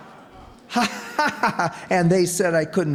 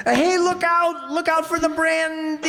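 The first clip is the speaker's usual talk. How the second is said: panicked yell, much higher; alarmed shout; 11 semitones higher than usual. Acted. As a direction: cry out as it slips. Bottle about to fall.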